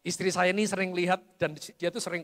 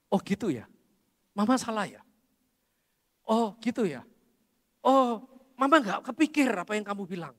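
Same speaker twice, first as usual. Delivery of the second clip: gentle mother; 4 semitones higher than usual. Retold or imitated. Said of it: "Mamanya bilang gini".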